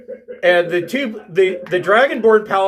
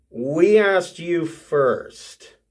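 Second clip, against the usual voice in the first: very slow, weighty Dragonborn; Dragonborn paladin; much slower than usual. Acted. Dragonborn paladin answering the challenger, slow and deliberate. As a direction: draw out each word as a Dragonborn paladin.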